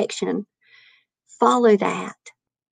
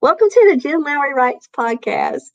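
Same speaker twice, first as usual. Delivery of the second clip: podcast intro; 3 semitones higher than usual. Retold or imitated. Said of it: "this little thing that I would say".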